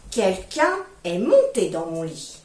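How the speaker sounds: low and slow, a lightly voiced middle bear; the middle bear, low and slow, finding his bed disturbed. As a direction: plod it out like a middle-sized bear. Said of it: "Et le moyen ours dit".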